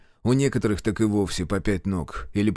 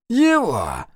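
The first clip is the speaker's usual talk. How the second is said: eerie possessed man; 9 semitones higher, 5 dB louder than usual. Acted. Kravchuk's voice.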